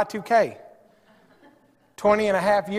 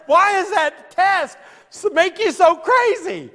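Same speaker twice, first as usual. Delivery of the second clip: exasperated; 9 semitones higher, 4 dB louder, slower than usual. Real, not acted. Exasperated rant about the test.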